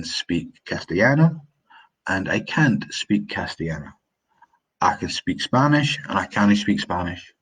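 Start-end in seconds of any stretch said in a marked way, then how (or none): 4.8-6.0 quicker Scots accent with reduced "can". Shown as a demonstration. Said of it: "In Scots, we say". 6.2-7.3 Scots "cannae" for "can't". Shown as a demonstration. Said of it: "In Scots, we say".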